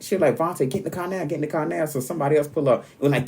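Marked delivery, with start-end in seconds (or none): 0.4-1.8 higher-pitched imitation of an insistent mother; urgent mom. Mom ordering her child into the car, urgent. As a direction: imitate mom hurrying you along.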